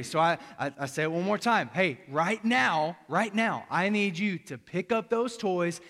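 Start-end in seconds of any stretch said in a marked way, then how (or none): 1.7-5.8 firm, louder parent command; a dad losing patience with his son; getting angry. Retold or imitated. Stern father raising his voice at his son. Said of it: "now I'm getting angry".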